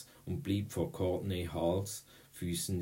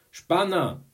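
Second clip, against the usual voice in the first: high, loud jeer; called-out insult; 12 semitones higher, 11 dB louder than usual. A narrator's reading. Girl accuses boy of peeping, called-out insult. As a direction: hurl the word at him. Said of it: "rief sie".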